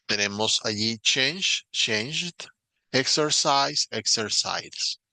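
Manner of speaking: change and changed, exercise and exercises said slowly in clear English; English pronunciation model. Shown as a demonstration. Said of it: "practicar la escucha ... modelo".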